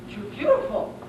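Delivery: dog struck by her beauty; breathless wonder; awed. Acted.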